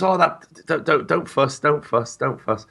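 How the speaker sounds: high, stammered polite protest; modest fluster. Retold or imitated. TV newcomer to his new runner, modest fluster.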